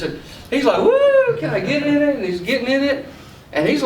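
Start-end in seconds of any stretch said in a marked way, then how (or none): 0.8-2.2 put-on very high, louder kid whoop then eager ask; thrilled whoop. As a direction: squeal with delight and beg. Boy sees the Power Wheel.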